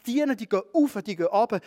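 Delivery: bright preaching emphasis on "auf" and "ab"; rising energy. Acted. Angels going up and down.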